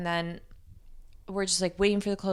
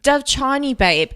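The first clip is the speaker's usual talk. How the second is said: mock British accent, higher at the start; 5 semitones higher, 3 dB louder, slower than usual. British friend revealing whose house it is, British accent. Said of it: "She's British".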